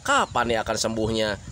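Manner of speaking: calm reasoning with a patient; gentle explaining. Acted. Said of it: "kalian cukup kasih penerangan saja".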